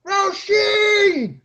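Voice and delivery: very high, loud charging yell; screaming her name. Retold or imitated. Charging down the ravine at the fencer, yelling her name loud and high. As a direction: bellow her name as you charge downhill. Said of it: "And I start screaming".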